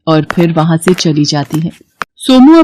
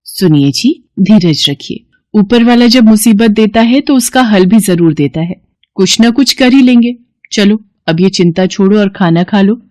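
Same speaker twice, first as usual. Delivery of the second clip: wife comforting; 2 semitones higher than usual. Acted. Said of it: "Radha ... Somu से कहती है".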